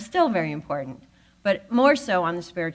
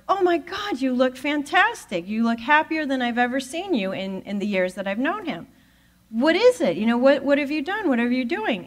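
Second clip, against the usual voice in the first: gushing surprise; 6 semitones higher than usual. Retold or imitated. Greeting a friend who looks great.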